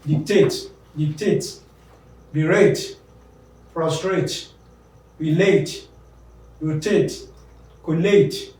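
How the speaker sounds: each verb from Dictate to collate stressed on its ATE ending; dic-TATE, be-RATE, col-LATE, end-stressed; stress on second syllable. Shown as a demonstration. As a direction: list Dictate, berate, relate one by one, weight on the last syllable. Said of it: "The second syllable is stressed".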